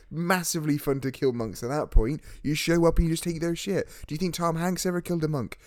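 put-on a loose Irish accent that keeps drifting; badly held Irish accent; wandering Irish accent. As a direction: attempt an Irish accent and let it slip around. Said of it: "This accent has gone all over the place".

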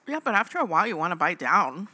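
lips smacking while chewing; chewing while talking. Real, not acted. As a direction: talk through a mouthful of candy. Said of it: "Your lips are smacking so much".

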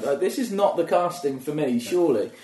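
high, loud baffled voice; bewildered teen. Retold or imitated. Teen at a casting asking himself why he's there, baffled. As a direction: play your confused fifteen-year-old self. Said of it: "And I'm like".

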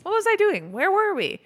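mock high-voiced confusion; a hammed-up high take of the line; high squeaky take. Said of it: "He does a couple different takes of that".

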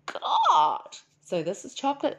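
slow, swooning oh my God; amazed at chocolate. Retold or imitated. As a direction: melt into the first taste of chocolate. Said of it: "trying chocolate and going".

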